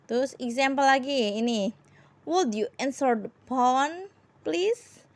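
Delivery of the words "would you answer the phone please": more polite request. Shown as a demonstration. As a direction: ask very politely, lifting please. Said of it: "would itu lebih sopan lagi".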